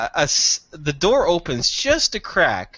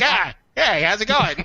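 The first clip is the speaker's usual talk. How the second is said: higher mock bird voice through a hand over the mouth; beak voice; 7 semitones higher than usual. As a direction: talk like a beak flapping out of a door. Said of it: "I'm pretending it's a beak and talking".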